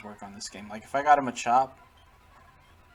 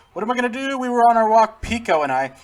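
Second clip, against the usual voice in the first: high, loud fretting voice; worried character pleading for help; distressed game character; 10 semitones higher, 10 dB louder than usual. Acted. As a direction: wail it out in a higher, louder voice.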